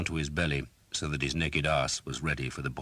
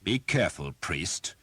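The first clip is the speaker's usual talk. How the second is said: knight snarling a warning at the priest; snarled warning; 3 semitones higher than usual. Acted. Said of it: "Sir Simon snarled".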